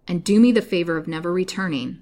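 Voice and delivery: understated anger with a loud opening; restrained storybook indignation; angry. A narrator's reading. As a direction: lash out mildly, hitting the first words harder. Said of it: "said Lily angrily".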